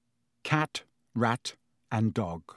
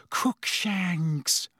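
moaning; 5 semitones higher than usual. Acted. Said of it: "Hermione moaned".

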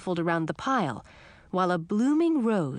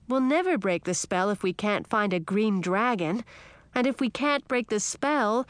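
put-on high, pleading young girl; a small frog insisting it must be true; frog princess; 4 semitones higher than usual.

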